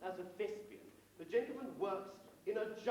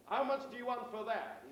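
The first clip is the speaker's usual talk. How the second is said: higher mock-American tourist; American accent; 4 semitones higher, 3 dB louder than usual. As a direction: ask it in a put-on American accent. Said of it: "said our American friend".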